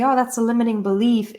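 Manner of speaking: light, quick mock-airy quote; dismissively cutesy. Teacher mimicking people who say "limiting belief", mildly cutesy. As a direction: toss it off as if it were trivial. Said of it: "it's not that cutesy".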